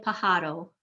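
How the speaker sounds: "pajaro" stressed on the middle syllable HA; wrong stress. Shown as a demonstration. Teacher showing what not to say, "pajaro" stressed on HA. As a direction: move the stress of "pajaro" onto HA. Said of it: "you do not want to say".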